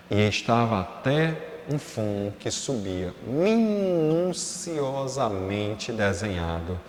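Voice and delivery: low, measured poetry recital; hushed, drawn-out close to each phrase; poem reading. Acted. Releia o trecho a seguir do poema.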